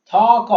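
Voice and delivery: "থ ক" loud, each letter its own open syllable; separate syllables. Shown as a demonstration. Teacher counting one beat each, "থ ক" syllable by syllable. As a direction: sound "থ" and "ক" one by one. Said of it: "প্রত্যেকটা এক এক করে".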